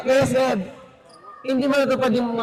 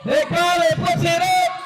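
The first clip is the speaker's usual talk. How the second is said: excited call; 6 semitones higher than usual. Real, not acted. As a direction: ride the moment of the shot. Live basketball play-by-play call. (masiglang sigaw sa tira)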